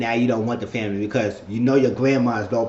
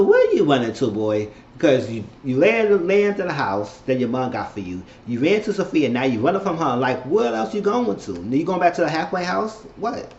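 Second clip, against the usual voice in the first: exasperated scolding; 4 semitones higher than usual. Real, not acted. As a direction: call him out with rising disbelief. Scolding the boy on screen.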